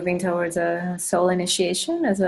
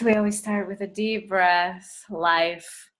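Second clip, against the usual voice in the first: unhurried meditation leader, long pauses between phrases; guided meditation. Acted. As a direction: guide them gently through breath and intention. Leads a meditation.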